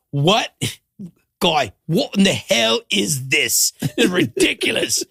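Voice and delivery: bad Australian accent. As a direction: do Gordon's Aussie-Kiwi grumble in a hammed-up accent. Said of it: "a bad English, Australian, New Zealand accent".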